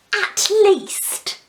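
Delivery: at least. Real, not acted. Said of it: "punchline tacked on".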